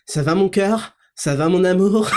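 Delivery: mock a gushing parent cooing at a kid; mocking doting parent. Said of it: "à vos enfants en disant".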